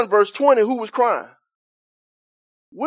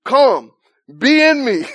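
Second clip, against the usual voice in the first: crying out; 2 semitones higher, 3 dB louder, slower than usual. Retold or imitated.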